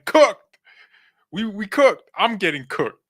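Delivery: short high yelp of defeat; mock-despairing yelp. Real, not acted. Vlogger wailing that his braces are cooking him, high yelp. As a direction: squeal the word out, half laughing. Exclaiming about braces pain.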